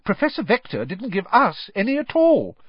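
a keen pupil bouncing up; brightly. A narrator's reading. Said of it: "said Hermione brightly".

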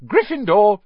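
high, loud shout; ringing cry, pitched well up; shouted announcement. A narrator's reading. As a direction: finally shout out the verdict. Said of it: "When it finally shouted".

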